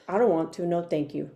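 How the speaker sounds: low, curt mock refusal; with attitude. Teenager refusing the girl's invitation, with attitude. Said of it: "With an attitude".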